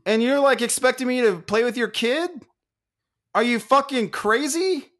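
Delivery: high-pitched incredulous rant; enraged disbelief. Retold or imitated. Stranger challenging mom over babysitting, outraged disbelief. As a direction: demand an answer in mock outrage. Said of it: "I was enraged".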